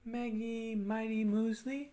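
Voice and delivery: slow, sustained humming-style drill phrase; resonance drill. Shown as a demonstration. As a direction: draw out the M words on a held tone. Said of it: "go a little bit higher".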